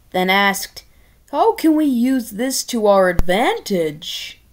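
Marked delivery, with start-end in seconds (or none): 1.3-4.4 lightly put-on king voice; a hint of greedy plotting; scheming king. King asks his advisors, mild scheming voice.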